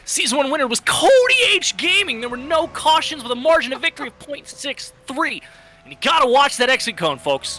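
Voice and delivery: high-pitched race announcer impression; Rusty Foo. Broadcaster reading race facts as Rusty, high-pitched impression. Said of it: "let me do my Rusty Foo impression".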